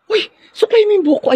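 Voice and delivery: very high, fast, frantic squeal; girl flustered as her crush arrives, squealing; panicked squeal. Acted.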